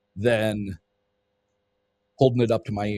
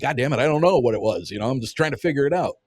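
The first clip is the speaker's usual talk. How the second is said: quick, mildly exasperated retort; reenacted irritation, fast but not really yelled; retold annoyed yell; 3 semitones higher, faster than usual. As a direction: rush it out in mild annoyance. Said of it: "I kinda got annoyed with him. I yelled at him".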